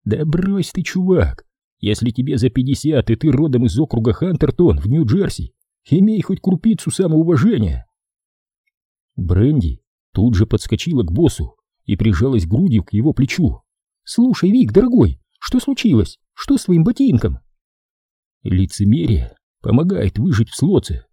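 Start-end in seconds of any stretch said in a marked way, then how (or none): 0.1-7.8 mocking. Jason mocks the boss. 14.0-17.4 high, sugary fake concern; fawning. Brandy fawns on the boss.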